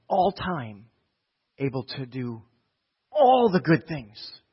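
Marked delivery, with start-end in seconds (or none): 1.6-4.4 each word slowly drawn out; stretched-out preacher's emphasis. Real, not acted. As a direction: lay down every word slowly. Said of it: "slowed emphasis".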